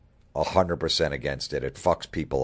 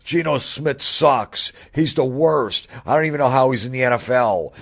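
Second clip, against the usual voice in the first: much higher, louder ranting fan voice; shrill-free mock caller rant, pitched way up; angry sports radio caller; 6 semitones higher, 4 dB louder than usual. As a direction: rant like a furious Jets caller. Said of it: "I'm calling every sports radio in New York".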